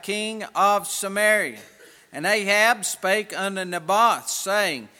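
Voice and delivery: solemn King James reading; scripture reading. Acted. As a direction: read it out like scripture. Reads scripture aloud.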